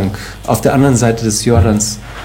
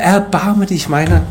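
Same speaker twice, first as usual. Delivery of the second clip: crying out; 4 semitones higher than usual. Acted. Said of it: "Jetzt schreit er".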